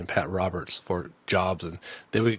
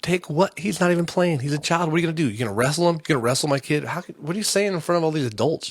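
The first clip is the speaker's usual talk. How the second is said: higher, indignant string of questions; retold indignation; 6 semitones higher than usual. Parent to yelling owner about a child, retold indignation. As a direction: challenge him in mildly heated disbelief.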